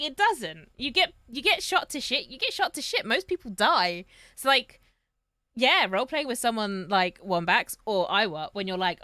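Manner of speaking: usual speaking voice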